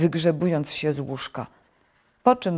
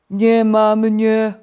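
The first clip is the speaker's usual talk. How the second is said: slow, loud, high groan; drawn-out sleepy wail; 7 semitones higher, 10 dB louder, much slower than usual. A narrator's reading. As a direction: drag the words out in a sleeper's protest. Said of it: "odpowiedział senny głos".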